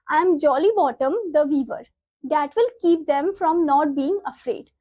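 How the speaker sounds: slow, deliberate textbook read-aloud; measured classroom reading. Acted. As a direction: read the script out slowly, word by word. Reads play lines aloud.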